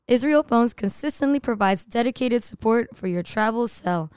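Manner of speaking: polished ad read; radio voice. Acted. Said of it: "Look at you with your radio voice".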